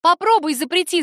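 high, loud defiant shout. Acted. Daughter screams defiance at her forbidding mother. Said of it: "закричала я".

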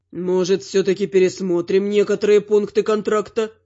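a smug demon asking slyly; demon lord. A narrator's reading. Demon asks. (низкий лукавый голос демона Шазгара)

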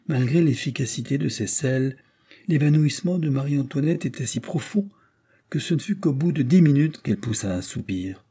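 hushed storytelling whisper; whispered narration. A narrator's reading. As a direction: whisper the tense moment.

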